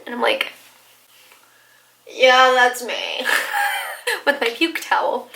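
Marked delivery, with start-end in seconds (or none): 2.1-3.3 dazed, slow yell; slow drunk shout. Retold or imitated. Drunk answer, shout measured.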